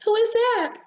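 very high, indignant little voice; annoyed question. Acted. Rosebud asks who is at the keyhole, annoyed. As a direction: pipe up sharply at the intruder.

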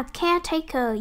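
"caretaker" stressed on the first syllable, CARE. Shown as a demonstration. Teacher modelling a noun for students, stress on first syllable of "caretaker". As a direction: hit CARE in "caretaker", let the rest fall away. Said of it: "danh từ nhấn âm một".

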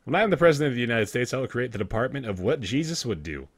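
quick sassy card reading; Sassy Hat voice. Pretend. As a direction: rattle it off with sass. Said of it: "do the Sassy Hat voice for us".

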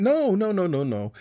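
ordinary delivery

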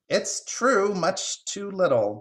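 high squirrel voice, slowing down; agreeing squirrel. Acted. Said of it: "the squirrel agreed".

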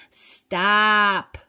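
sharp, loud command; firm loud stop. Real, not acted. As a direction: bark it out like a firm order. Tarot reader orders listener to stop.

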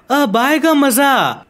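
slow, savoring villain gloat; slow scheming glee. Acted. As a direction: draw it out, relishing the trick. Villain gloats over his swap plan.

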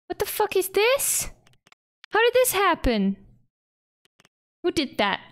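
high, startled what the fuck; real disbelief at the mess; shocked outrage. Real, not acted. Gamer sees her park wrecked, stunned high outrage.

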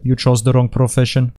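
light mock Russian accent; lightly put-on Russian accent. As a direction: deliver it as a Russian movie villain. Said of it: "with a Russian accent".

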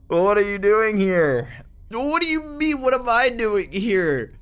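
shocked disbelief. Real, not acted. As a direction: stretch it out high, still reeling from a scare. Confronts figure that scared him.

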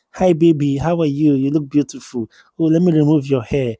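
sweet-talking husband, light and coaxing; sweet words. Retold or imitated. Husband sweet-talking his wife, coaxing and tender. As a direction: woo her with honeyed words. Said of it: "I will use sweet word for her".

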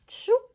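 high little shoop sound; a quick squeaky pickup noise; playful pickup whoosh. Acted.

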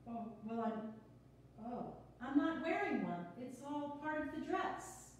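quick, bubbly, a little flustered; nervous newcomer rattling on; nervous chatty woman. Acted. Sonia flustered, laughing.

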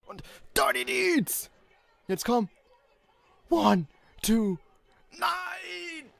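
high frantic yelling; excited shout. Real, not acted. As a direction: scream at the screen. Live reaction, shouting.

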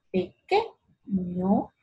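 "pequeño" slow, pe-QUE set apart from a rising ño; prueba de acento. Shown as a demonstration. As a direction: try pe-QUE-ño with QUE picked out. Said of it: "¿Cómo yo hablo?". ("pequeño" lento, probando el acento en QUE)

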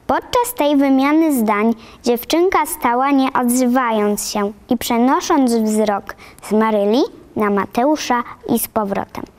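ordinary delivery

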